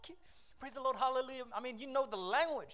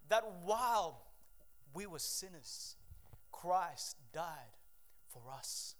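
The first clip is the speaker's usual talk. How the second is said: softer, fading, choked reading; emotional; 4 semitones lower, 4 dB quieter, slower than usual. Real, not acted. Preacher rereading Romans to the church, softly choked. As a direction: let the verse break you. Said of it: "I'm getting emotional".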